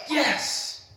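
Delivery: a dad cheering his son on; excited cheer. Retold or imitated. Father seeing son ride a bike, excited cheer. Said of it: "the excitement that I got ... was like".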